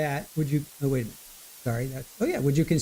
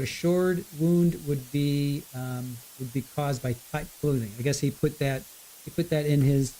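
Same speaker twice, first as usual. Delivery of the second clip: quiet voice loud hiss. Real, not acted. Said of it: "Sorry for the, uh, the hiss".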